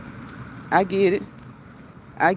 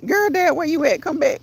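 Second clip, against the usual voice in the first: playful calling out; 5 semitones higher than usual. Pretend. Calling a viewer who left.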